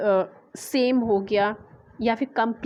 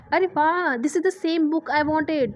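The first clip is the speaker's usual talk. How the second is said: pleased "wow, this is it" excitement; happy surprise; 3 semitones higher, much slower than usual. Shown as a demonstration. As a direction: sound delighted to find the book. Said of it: "तो आप बिल्कुल happy हो जाते".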